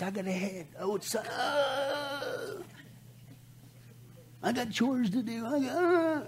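a whiny, brushing-off excuse-maker, whispering and whimpering by turns; mock scoffer. Scoffer waving off Pastor Billy, mock whiny excuses. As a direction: play the lazy scoffer dodging the pastor's warning. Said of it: "He said".

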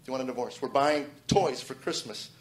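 flat, casual offer of divorce, slowed on the toys line; offhand, like taking out trash. Retold or imitated. Wife at Toys R Us, casually: offhand flat question. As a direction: toss it off like a chore. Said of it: "And that's how she said it, as if you want to take out the trash".

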